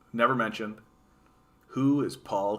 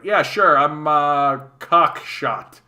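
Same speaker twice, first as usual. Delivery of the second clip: proud goofy voice; 3 semitones higher, 8 dB louder, much slower than usual. Retold or imitated. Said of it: "It's like".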